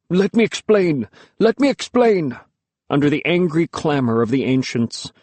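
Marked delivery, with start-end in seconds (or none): 0.1-2.4 pleading. A narrator's reading. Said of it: "I could hear Father pleading".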